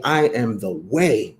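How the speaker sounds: slow, weighty proclamation; measured, grand pronouncement; bold claim. Shown as a demonstration. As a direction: declare it like a brand you own. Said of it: "you have to talk like that".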